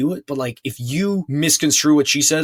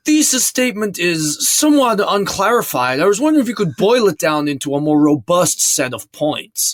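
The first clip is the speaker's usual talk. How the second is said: mock professor; 3 semitones higher than usual. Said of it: "you're not a fucking professor".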